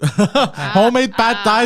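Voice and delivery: put-on hammy Asian accent, cracking up. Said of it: "I just wanted an excuse to use it".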